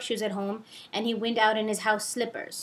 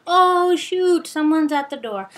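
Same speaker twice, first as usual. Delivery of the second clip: raised, louder mock surprise; pretend alarm; 5 semitones higher, 8 dB louder, slower than usual. Faking a visitor to end the call, mock alarm. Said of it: "pretend to knock on the door".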